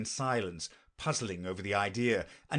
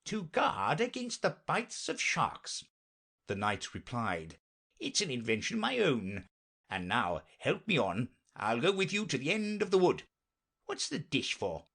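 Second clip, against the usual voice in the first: higher, lilting knight voice; earnest knight; 3 semitones higher than usual. Acted. Knight explains his horse's anklets, earnest and lilting. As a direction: explain it with swooping pitch.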